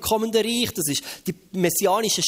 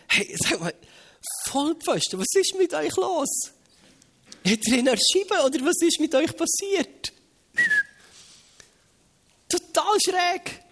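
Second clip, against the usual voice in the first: high-pitched, outraged disbelief; indignant bystanders; 10 semitones higher than usual. Acted. Preacher voices onlookers shocked by the frenzy, indignant disbelief. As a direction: scold the crazy crowd, appalled. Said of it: "die Empörung".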